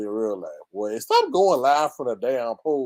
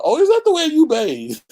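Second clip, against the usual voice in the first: laughing; 12 semitones higher, 6 dB louder than usual. Real, not acted. Mocking discovery, laughing.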